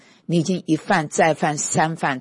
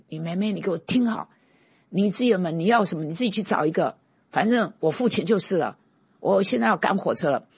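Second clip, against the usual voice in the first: raised, heated scolding of mother; angry yell at mother; 5 semitones higher than usual. Retold or imitated. Son scolding his nagging mother before the train, heated shout. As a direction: scold her in a hurry, voice up. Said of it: "我就喊了她的名字".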